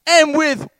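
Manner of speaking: loud, high preaching; lifted-up voice. Acted. Peter about to accuse the onlookers, lifted-up voice. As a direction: proclaim it, building to an accusation. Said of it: "he lifts up his voice".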